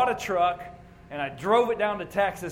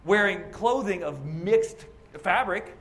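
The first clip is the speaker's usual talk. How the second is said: accusing critic. Retold or imitated. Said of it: "hear people accuse us of".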